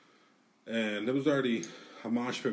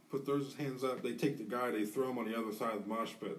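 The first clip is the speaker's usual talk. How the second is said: ordinary talk, nothing marked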